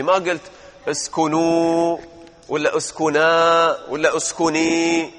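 slow deliberate listing of forms; teacher drawing out the wrong forms; slow demo. Shown as a demonstration. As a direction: spell out each form slowly. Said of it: "هذه أفعال خمسة".

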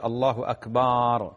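"أكبر" said slowly as akbaar, second vowel held; lengthened vowel. Retold or imitated. Sheikh reading out a listener's question about the imam, lengthened vowel. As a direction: draw out "أكبر" with a long stretched final aa. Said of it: "يطيل فتحة".

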